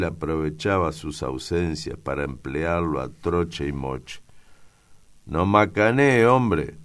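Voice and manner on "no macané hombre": loud, high protest; high, forceful exclamation of disbelief; child's retort. A narrator's reading. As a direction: scoff loudly in a child's raised voice.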